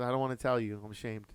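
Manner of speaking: a touch of shame, trailing off; mock ashamed mom. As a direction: play the embarrassed mother. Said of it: "She goes".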